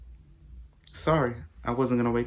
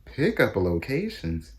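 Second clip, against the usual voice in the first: higher, slow disbelieving repeat; incredulous; 5 semitones higher, slower than usual. Retold or imitated. Rereading the sign to herself, incredulous. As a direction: stretch it out in disbelief. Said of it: "I beg your pardon?".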